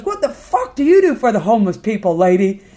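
loud, confrontational demand; acted-out indignant question; angry challenge. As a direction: take them to task hotly. The speaker challenges the lady.

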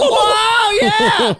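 high, pinched comic voice; squeaky silly voice. Acted. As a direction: play it as a goofy high voice.

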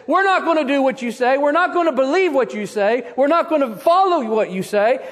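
mock defiant yell at God; defiant shout. Scoffers defying God, mocking shout. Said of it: "shakes his fist at God and says".

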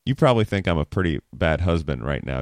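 fast, open question inviting her to vent; humble, inviting ask. Shown as a demonstration. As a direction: own the blame lightly. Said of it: "gives the wife permission to vent".

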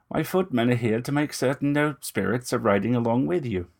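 lightly voiced vampire gentleman, smooth and ingratiating; a hint of menace under courtesy; vampire purring false reassurance; Moust, oily vampire. Moust explains the footmen.

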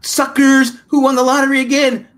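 high, loud, taunting gloat; gloating lottery winner. Pretend. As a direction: rub it in their faces like a spoiled winner. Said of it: "I'd be like".

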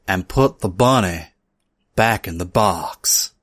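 low, slowing movie-hero quote; Nicolas Cage. Acted. Introducing himself to podcast listeners with a film quote, Nicolas Cage impression. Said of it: "doing Nicolas Cage impressions".

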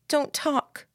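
high-pitched, near breaking; fragile plea. Acted. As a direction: beg as if barely holding together. Lillian begs Jamie, near breaking.

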